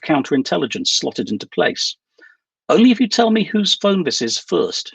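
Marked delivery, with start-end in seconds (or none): 2.7-4.9 a sharp, higher-pitched challenge; challenging. A narrator's reading. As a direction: push back hard, demanding an answer first. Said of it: "she challenged".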